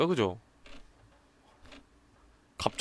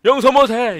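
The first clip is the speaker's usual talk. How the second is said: furious scream; 10 semitones higher, 10 dB louder, slower than usual. Acted. Character screams vow.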